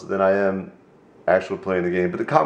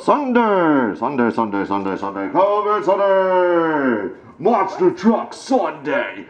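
booming Sunday Sunday Sunday announcer; slow hyped monster truck promo; 5 semitones higher, slower than usual. Pretend.

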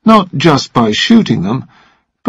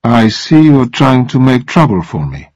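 coolly. Acted. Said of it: "said coolly".

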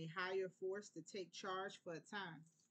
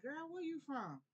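a much higher, slightly louder stranger asking where you from; curious stranger; 8 semitones higher, 3 dB louder than usual. Retold or imitated. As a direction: play a nosy stranger who picks up on the accent. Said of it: "people be like".

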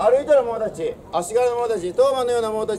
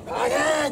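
impact sound effect; 7 semitones higher than usual. Retold or imitated. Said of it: "っちゅうて".

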